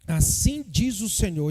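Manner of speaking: slow, solemn prophetess declaring; prophetic proclamation. Acted. (proclamação lenta e solene)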